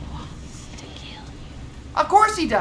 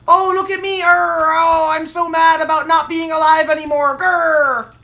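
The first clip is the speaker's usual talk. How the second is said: mock ghost whining. Gamer mocking the angry ghost with fake moans and growls. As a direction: whine like a sulking ghost.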